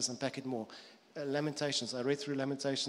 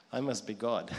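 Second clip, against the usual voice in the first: self-satisfied cat; 4 semitones lower than usual. Pretend. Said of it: "Cat theology".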